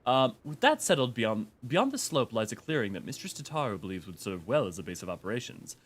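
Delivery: monotone robotic reading; level, mechanical robot delivery. Acted. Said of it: "I will miss doing the robot voice".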